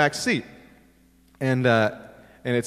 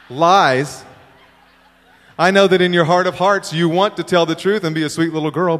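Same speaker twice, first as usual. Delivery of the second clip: loud, hammed-up dad rant; play-acted loud scolding of a child; mock tirade; 3 semitones higher, 6 dB louder than usual. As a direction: let the imagined outburst build, punching each accusation. Daydream tirade at his daughter.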